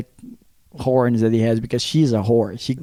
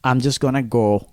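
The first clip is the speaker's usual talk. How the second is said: retold meek apology; 2 semitones lower than usual. Teller saying sorry to the angry boyfriend, mildly acted apology. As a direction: talk him down, understated and even.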